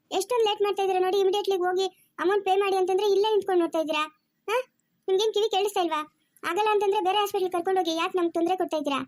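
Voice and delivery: irritated hospital staff telling relatives off; impatient scolding. Acted. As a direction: scold them for wasting your time. Nurse scolds family over payment.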